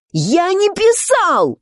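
high, slow protesting cry; cried out. Acted. The Knave protests to the court with a high cry. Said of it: "вскричал Валет".

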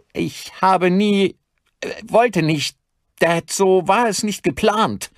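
high, loud faltering protest; panicked stammering. Acted. Son makes excuses to his armed father, high panicked stammer. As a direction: plead in a panic, halting between phrases.

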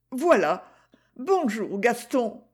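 lightly voiced young Gigi, protesting; Gigi, young girl. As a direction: play the girl, defiant and earnest. Gigi greets Gaston.

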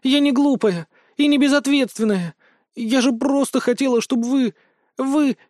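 put-on high, tearful girl's voice; crying girl defends herself, breaking off; tearful protest. A narrator's reading. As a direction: protest through tears. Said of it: "Слёзы крупными горошинами закапали".

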